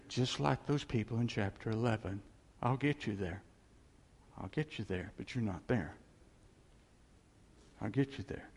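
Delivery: soft, low and hushed, God whispering close; gentle whisper in the ear. Acted. Preacher voicing God whispering comfort to the congregation, hushed. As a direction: lean in and murmur it softly to the listener. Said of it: "he whispers in your ear".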